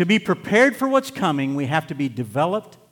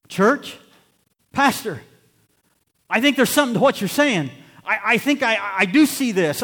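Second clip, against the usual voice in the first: lightly voiced eager churchgoer, a bit higher; church member; 5 semitones higher, 3 dB louder than usual. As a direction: play a congregant agreeing with the pastor. Imagined church member answers pastor.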